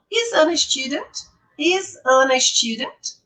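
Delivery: slow model question, end of "student" lifted; rising question intonation. Shown as a demonstration. Teacher repeating the example for students, rising on STUDENT. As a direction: raise the tune on "student", taking it slowly. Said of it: "ela sobe no final".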